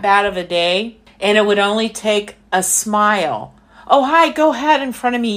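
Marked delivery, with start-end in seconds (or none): 3.9-5.4 quick, higher-pitched courteous offer; friendly greeting. Acted. Showing how to be nice to a stranger, friendly and quick. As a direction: act out cheerfully letting a stranger go first.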